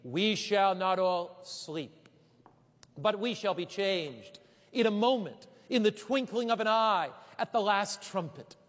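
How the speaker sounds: ordinary talk, nothing marked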